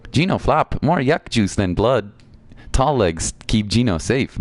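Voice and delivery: slow, broken-speech critter Gino; little creature. Acted. Voices game creature's lines.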